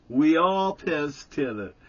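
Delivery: loud retort. Retold or imitated. Jerry answering Stan defiantly, loud and slow. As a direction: throw it back defiantly.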